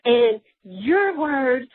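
slow, mildly indignant recital; mock-mad complaint, drawn out; retold anger at God. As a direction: lean hard on the words as if throwing them back at God. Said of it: "I would get mad at God and be like".

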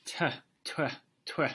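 sky god's mocking "tuh" laugh; short, puffed, scornful chuckles; storybook laugh. A narrator's reading. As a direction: laugh in three little puffs. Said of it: "he laughed".

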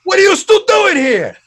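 high, loud panicked whoas; frantic high-pitched protest in pain; panicked yelling. Retold or imitated. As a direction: yell out in pain and alarm at the doctor.

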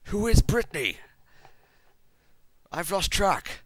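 loud, very high-pitched bewilderment; baffled outburst. Real, not acted. Reader losing track of the characters, high baffled outburst. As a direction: break off in exasperated, high-pitched confusion.

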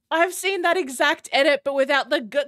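high, loud, laughing speech; talking through laughter. Real, not acted. Host explaining she's seen that edit, still laughing. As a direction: stumble over the words as the laughter bubbles up.

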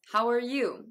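"are" in "How are you" as "er"; reduced ARE. Shown as a demonstration. Teacher recapping three variants, "are" in "How are you" reduced. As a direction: squeeze "are" into "er" before a full "you". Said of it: "という三種類ですね".

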